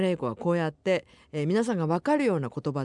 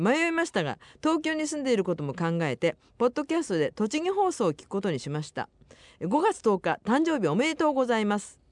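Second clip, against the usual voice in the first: higher-pitched, lively radio letter reading; reading listener mail; 6 semitones higher than usual. Acted. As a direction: read the listener's message out brightly, pitched up. Reads listener's mail on air. (お便りを読み上げる高めの声)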